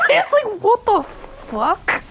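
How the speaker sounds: laughing. Real, not acted. Laughing disbelief at cutscene.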